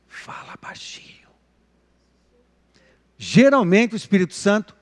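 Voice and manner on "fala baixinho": very soft, voiceless whisper; hushed whisper. Shown as a demonstration. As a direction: whisper it like the Holy Spirit's voice. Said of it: "sobre a voz do Espírito Santo".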